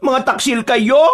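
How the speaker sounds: slow dramatic accusing shout; mock outrage. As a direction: hurl the accusation slowly. Cousin accuses parents.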